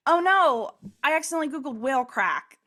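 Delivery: high, loud mock "oh no"; hammed-up alarm at a silly mistake; retold comic dismay. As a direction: replay your own blunder in a high, dismayed voice. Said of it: "so funny the way I said it".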